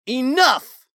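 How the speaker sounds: high, loud outburst; explosive, high-pitched command; shouted demand. A narrator's reading. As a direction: yell it as you strike out. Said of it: "Talon demanded and struck out".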